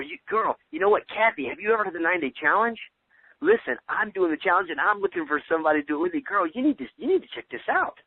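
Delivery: high, gushing excitement; exuberant caller. Shown as a demonstration. Coach demoing a gushing call to Kathy, exuberant. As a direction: squeal it to Kathy like big news. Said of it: "for some of you that aren't as exuberant".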